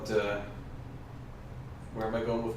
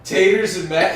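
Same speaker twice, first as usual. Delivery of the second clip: mocking British accent; 6 semitones higher, 7 dB louder than usual. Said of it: "Is that your British accent?".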